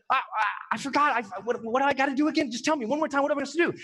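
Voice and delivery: mildly flustered, stammering mock panic; retold panic. Forgetful student asking the instructor again, mildly panicked. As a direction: stumble over the words in a retold fluster. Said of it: "I start having a panic".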